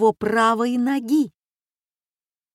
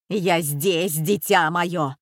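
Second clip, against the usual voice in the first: mother's answer; slower than usual. A narrator's reading. Mother answers her frightened son.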